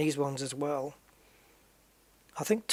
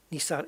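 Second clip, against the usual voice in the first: Nissan as nee-SAN, weight on the end; shifted emphasis. Shown as a demonstration. Gamer repeating the corrected emphasis, Nissan as nee-SAN. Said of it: "where you put the emphasis".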